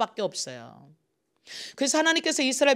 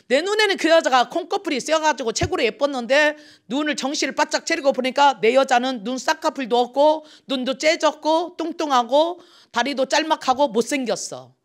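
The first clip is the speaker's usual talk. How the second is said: husband griping about his wife, loud and high; disappointed husband running down his wife; grumbling husband; 5 semitones higher, 5 dB louder than usual. Retold or imitated. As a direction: raise the pitch, list her faults with disdain.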